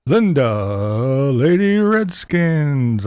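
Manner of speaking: slow, drawn-out announcer call; boxing ring announcer. Shown as a demonstration. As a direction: stretch the name like a ring intro. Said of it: "say it like she's a, a boxer coming into the ring".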